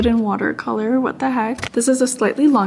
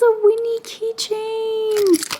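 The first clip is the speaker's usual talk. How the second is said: high, slow gushing; very high, slow, thrilled; delighted squeal; 13 semitones higher, much slower than usual. Real, not acted. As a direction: stretch it out in delight. Finds a keychain of her character.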